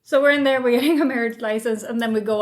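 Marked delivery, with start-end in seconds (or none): none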